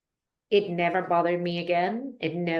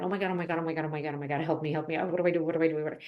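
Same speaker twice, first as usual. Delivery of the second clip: retold panic; much faster than usual. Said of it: "I was going a mile a minute".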